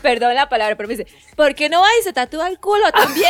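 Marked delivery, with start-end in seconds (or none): 1.4-3.3 reclamo agudo imitado, con risa asomando; madre enojada. Retold or imitated. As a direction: imita el berrinche sarcástico de una mamá. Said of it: "se enojó y me dice". (enojo fingido, medio en risa)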